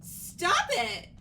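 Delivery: high, loud cry of refusal; startled, angry outburst; sharp shout. Acted. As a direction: shout her off. Character pushes hand away.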